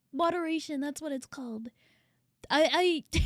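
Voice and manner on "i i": stuck stuttering on one word. Real, not acted. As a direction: catch and repeat the first word. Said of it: "I can't stop stuttering".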